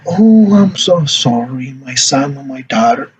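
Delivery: slow, drawn-out consolation; sympathetic parent. Shown as a demonstration. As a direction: soothe a hurt child. Parent consoles crying child in role-play.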